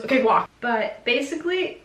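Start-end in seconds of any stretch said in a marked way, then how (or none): 0.0-0.5 crew guy's call. Retold or imitated. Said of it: "one of the guys just goes".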